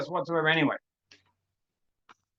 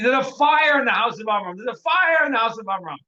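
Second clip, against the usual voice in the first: mock alarm cry, higher pitched; retold scream; 4 semitones higher, 4 dB louder than usual. Sage raising a false alarm from the ladder, retold scream. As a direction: call out the alarm, only half shouted. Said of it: "And he screams out".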